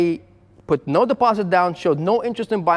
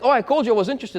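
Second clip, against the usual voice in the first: mock caller voice; 6 semitones higher, faster than usual. Mimicking the whiny caller.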